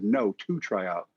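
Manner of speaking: quoted correction, spoken slowly; slow down to clarify "two tryout"; retold slow, patient correction; slowed clarification. Scout repeats question to correct him.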